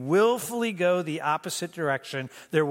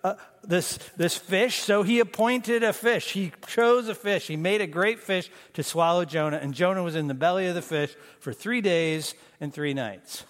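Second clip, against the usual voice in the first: excited realization. Retold or imitated. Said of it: "they're like".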